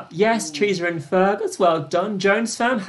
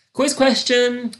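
slow, higher announcer teaser; dramatic build-up; 6 semitones higher, 3 dB louder, slower than usual. Acted. Host teasing players about the next question, slow and dramatic. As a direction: draw it out like a big reveal.

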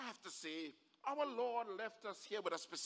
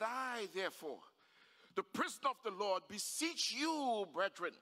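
emphatic, measured declamation building in force; ringing sermon cadence rising to a climax; preaching scripture; 2 semitones higher than usual. Real, not acted. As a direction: proclaim the verse phrase by phrase.

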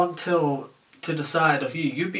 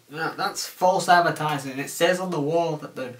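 imitating an angry customer; 3 semitones higher than usual. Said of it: "Sometimes they'll scream bloody murder".

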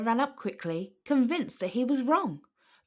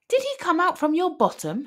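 asked in fear; 8 semitones higher, 4 dB louder than usual. A narrator's reading. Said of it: "his mother asked in fear".

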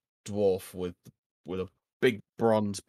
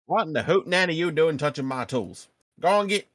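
angry dwarf voice; 9 semitones higher, 8 dB louder than usual. Acted. Dwarf shooing player from tools.

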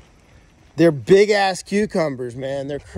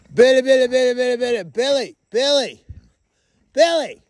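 sing-song calling; 5 semitones higher than usual. Real, not acted. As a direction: call the goat in with a lilting chant. Calling goat over from afar.

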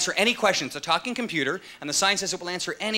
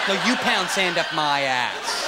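smug computer; much slower than usual. Retold or imitated. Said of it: "the computer's the biggest knob".

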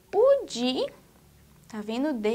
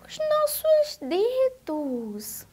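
1 slow, drawn out; 9 semitones higher, much slower than usual. Shown as a demonstration. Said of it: "Observem só".

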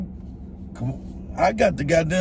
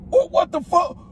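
aggressive; 4 semitones higher than usual. Real, not acted. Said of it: "Stop being aggressive".

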